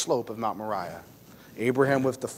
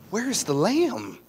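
gentle, loving question; 8 semitones higher than usual. Acted. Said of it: "in a gentle and loving way".

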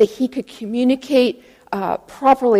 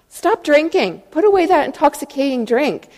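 higher-pitched, hammed-up telling-off; mock scolding; 5 semitones higher than usual. Pastor to woman at the altar, mock scolding. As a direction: playfully scold like a shocked pastor.

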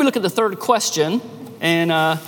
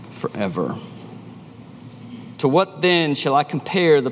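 measured, solemn Bible reading to the congregation; scripture reading. Acted. Pastor reading Luke to his church, measured and solemn. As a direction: read the Gospel words aloud with weight. Reads Luke seven aloud.

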